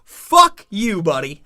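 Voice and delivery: hammed-up rude official, ending in laughter; mock inspector telling him off. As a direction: play the smug inspector sending him home. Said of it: "I said".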